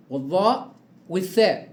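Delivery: teacher stressing the letters; emphatic listing. Shown as a demonstration. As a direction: announce the three letters with emphasis. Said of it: "الحروف اللي بتخرج من طرف اللسان".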